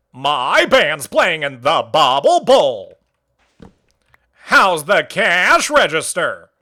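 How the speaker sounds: slow, snobbish drawl; Squilliam voice. Acted. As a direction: sneer like a posh rival squid. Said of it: "my Squilliam".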